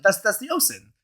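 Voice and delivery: "ocean" as OH-sin, insisting; deliberate mispronunciation. Acted. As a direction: say "ocean" with S in place of SH. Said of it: "you could say ocean instead".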